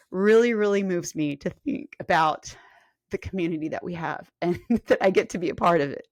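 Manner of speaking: getting choked up with feeling; moved, with a little laugh breaking in; emotional. Real, not acted. Coach moved by her fitness community, emotional. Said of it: "I get very emotional about this".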